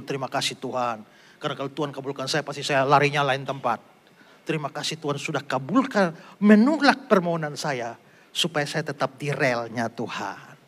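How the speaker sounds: soft humble thanks to God; a believer's hushed thank-you prayer; quiet grateful prayer. Retold or imitated. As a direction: pray it softly, almost to yourself.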